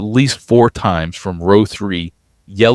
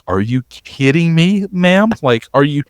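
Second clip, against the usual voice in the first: exasperated passengers; 8 semitones higher than usual. Retold or imitated. Passengers fed up with yelling.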